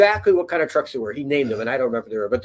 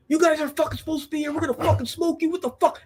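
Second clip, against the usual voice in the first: high, strained mock yell of armed guards; 14 semitones higher, faster than usual. Guards yelling threats at the Marines, high mock yell. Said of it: "they're yelling at the Marines".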